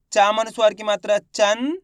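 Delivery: teacher's rising spelling drill ending in "चंद"; spelling-out demonstration. Shown as a demonstration. Teacher repeating the reading for students, spelling-out demonstration. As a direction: spell letter and sign, rising onto a nasal "चंद". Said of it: "एक बार फिर से देख लीजिए".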